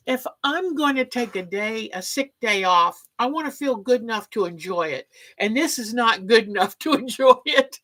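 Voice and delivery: mock whiny complaint, lightly put on. Complaining to Mark about her migraine, lightly whiny. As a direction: playfully whine like a sulking sick kid. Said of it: "in my little best whiny voice".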